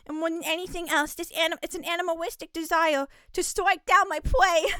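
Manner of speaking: put-on cutesy baby-talk uwu voice. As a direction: lisp it cute like an anime uwu. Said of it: "we have to go into the Uwu voice".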